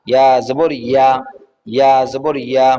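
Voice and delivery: measured sing-song spelling drill, last vowel held; recitation drill. Shown as a demonstration. Teacher reciting Arabic letters for learners, sing-song recitation drill. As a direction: chant each letter, then stretch the syllable.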